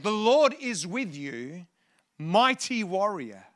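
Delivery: drawn out, deliberate angel's greeting; slow proclamation. Retold or imitated. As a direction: proclaim it slowly, stretching the words. Preacher proclaims the angel's words.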